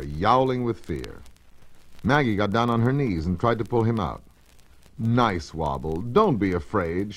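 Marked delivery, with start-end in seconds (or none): 5.0-7.1 soothing. Acted. Maggie coaxes the frightened cat from under the stove, soothing and slow. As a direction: gently coax him out, slowly. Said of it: "she tried to soothe him".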